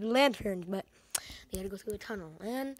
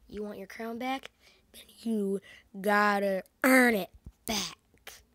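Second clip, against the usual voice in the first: hard bargain, slowing to a louder finish; acting tight; 5 dB louder, slower than usual. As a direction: drag out the demand word by word. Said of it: "she was all tight".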